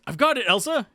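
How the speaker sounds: high, sudden eureka; acted burst of excitement; excited realisation. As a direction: burst out as if it just clicked. Character has a sudden realisation.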